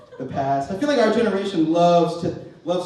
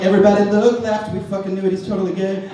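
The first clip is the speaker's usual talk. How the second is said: mock girls; 4 semitones higher, 5 dB louder than usual. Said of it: "all the girls are like".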